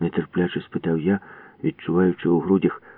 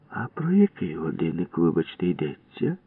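softer, mock polite; feigned innocence; 4 dB quieter than usual. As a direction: play dumb. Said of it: "невинно закліпав очима Будка". (удавана невинність)

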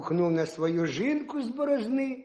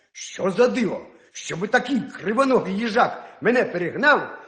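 angry hare; 2 semitones higher, 3 dB louder than usual. Acted. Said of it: "Розлютився заєць".

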